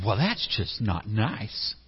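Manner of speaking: slow, sulky protest; sulky complaint. Acted. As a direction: drag it out like a hurt child. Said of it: "You go".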